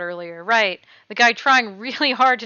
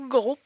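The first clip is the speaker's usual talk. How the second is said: gulp. Acted. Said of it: "I acted it out".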